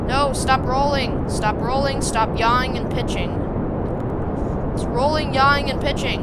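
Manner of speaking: loud alarmed commands; panicked shouting. Real, not acted. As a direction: yell at the spinning rocket. Rocket spinning out of control.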